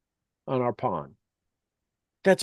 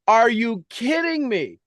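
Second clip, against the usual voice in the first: much higher, slow "Are you kidding me?"; incredulous; 9 semitones higher, slower than usual. Real, not acted. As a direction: let the disbelief rise and stretch out. Mocking the pessimists.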